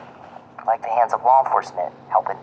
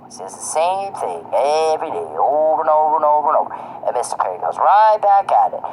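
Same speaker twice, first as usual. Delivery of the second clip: higher, faster, exasperated over and over; heated rant; 5 semitones higher, 4 dB louder than usual. Real, not acted. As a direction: pile it on, fed up and mocking. Ranting, mocking the repetition.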